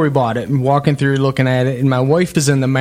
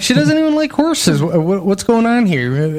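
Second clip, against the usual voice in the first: baffled squeak; 6 semitones higher than usual. Retold or imitated. Confused husband reacting to cowboy.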